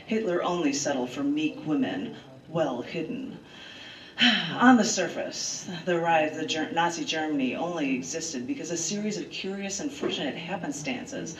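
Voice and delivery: measured storyteller reading of history; earnest essay read to friends; dramatic essay reading. Acted. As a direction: read it like a documentary narrator. Reads her dramatic essay aloud.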